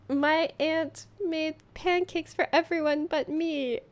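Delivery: a hint of a sobbing kid; mock crying child. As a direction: whimper it like a wronged little girl. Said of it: "the sound of your daughter crying".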